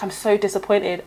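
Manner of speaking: soft, slow, mocking "I'm so disappointed"; mock disappointed parent. Mocking a parent's line about bullying, soft and slow. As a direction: drag it out, quietly mocking the parent.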